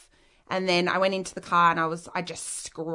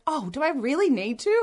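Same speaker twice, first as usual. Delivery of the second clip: higher-pitched mock whine of reluctance; reluctant mum; 7 semitones higher than usual. Mum asked to visit her ex, reluctant whine. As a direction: imitate a mother trying to get out of it.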